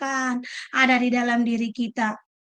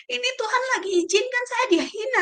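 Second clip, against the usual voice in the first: David calling out; 10 semitones higher than usual. Retold or imitated. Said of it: "Daud bilang". (Daud berseru menahan anak buahnya, nada jauh lebih tinggi dan lambat)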